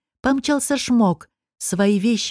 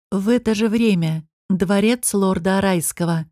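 plain reading voice

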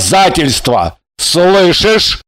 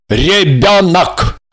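slow, drawn-out single word; slow, solemn revelation; emphatic announcement; 3 dB louder, much slower than usual. A narrator's reading. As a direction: stretch the word out with weight. Man announces the coming child.

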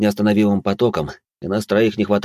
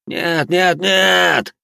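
отчаянный вой; 10 semitones higher, much slower than usual. A narrator's reading. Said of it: "мысленно завыл".

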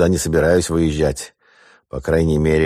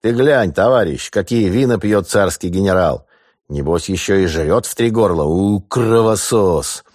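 rough sailor; 3 semitones higher than usual. Acted. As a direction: sneer it like a drunk brute from the street. Sailor gloats over the general's wines.

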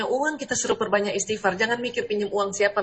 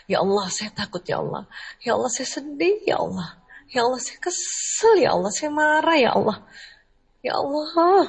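rising confession prayer; 4 semitones higher than usual. Pretend. Praying to Allah, confessing fear, then sadness, then rising anger. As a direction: pour the feelings out to God, growing stronger each line.

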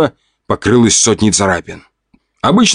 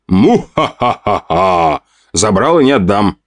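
slow hammed-up villain cackle; mock evil laugh. Teasing his bride, he cackles like a villain.

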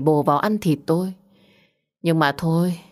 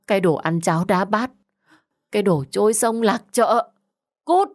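angry yell; 3 semitones higher than usual. Acted. Mẹ lại gào thét.

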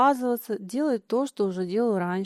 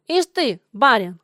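a louder scornful jab; contemptuous; 8 dB louder than usual. Acted. Миша mocks Лёня as a little master, contemptuous. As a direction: sneer the word барин. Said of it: "презрительно сказал Миша".

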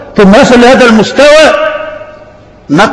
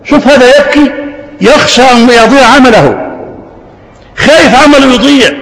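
impassioned; 5 semitones higher than usual. Real, not acted. Preacher moved by weeping companion.

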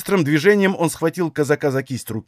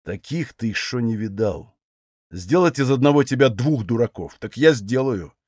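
through gritted teeth; 4 semitones lower than usual. A narrator's reading. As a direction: squeeze the threat out through the teeth. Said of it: "не разжимая зубов, процедил". (цедя сквозь зубы)

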